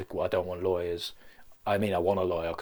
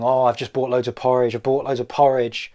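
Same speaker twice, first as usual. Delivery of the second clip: rabbit; 3 semitones higher, 8 dB louder than usual. Acted. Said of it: "a rabbit going".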